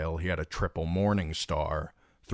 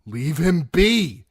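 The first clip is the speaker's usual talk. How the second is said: Brienne ordering; 11 semitones higher, 8 dB louder, slower than usual. A narrator's reading. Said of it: "said Brienne".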